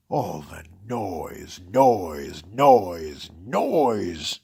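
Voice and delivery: escalating angry noise, noise, noise; furious noise rant. Acted. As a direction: build to a loud exasperated yell. Grinch rants about noise.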